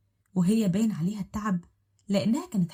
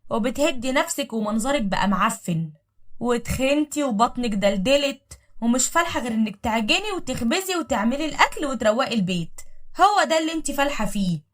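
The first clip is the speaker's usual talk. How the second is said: sarcastic; 4 semitones higher, 4 dB louder than usual. Acted. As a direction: sneer it out with scorn. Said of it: "ضحكت وقالت بسخرية".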